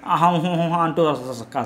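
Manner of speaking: slow, stumbling hum imitating tongue-tied housemates; mock nervous humming. Housemates fumbling to speak, mock nervous humming. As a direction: hum and falter like someone too nervous to speak. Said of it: "మాటలు తడబడిపోయి".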